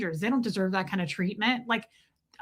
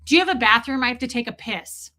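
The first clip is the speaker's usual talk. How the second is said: louder, blunt bathroom question; crude, blunt request; 2 semitones higher, 4 dB louder than usual. Acted. Imagined customer walking in to ask for a bathroom, crude. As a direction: ask it brashly, with no manners. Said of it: "I wouldn't walk in somewhere and be like".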